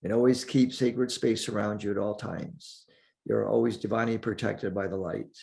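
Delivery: calm meditation guide with long pauses; unhurried, leave space between the phrases; guided meditation. Acted. Teacher guides listeners through breathing and centering, guided meditation.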